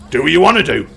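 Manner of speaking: firm innkeeper's warning, lightly voiced; stern innkeeper. Innkeeper to brawling customers, stern warning. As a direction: lay down the house rules. Innkeeper warns about furniture.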